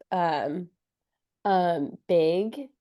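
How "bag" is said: "Big" for bag, raised vowel; mom's Wisconsin "bag". Retold or imitated. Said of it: "my mom will say".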